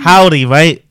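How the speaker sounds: loud, high mock-American greeting; badly faked American twang; best American accent. Shown as a demonstration. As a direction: burst into a hammy American accent. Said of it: "best American".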